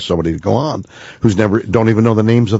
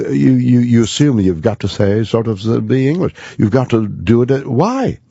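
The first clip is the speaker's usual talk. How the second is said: put-on English accent, pitched higher; British accent; 5 semitones higher than usual. Shown as a demonstration. Actor mocking the idea one must be English, British accent. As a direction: play at sounding British, pitch lifted. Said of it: "You sounded British".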